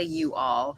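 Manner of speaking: "you all" said as two separate words; "you all" with "you" fully sounded; two full words. Shown as a demonstration. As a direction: say "you all" in full, not run together. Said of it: "I still say".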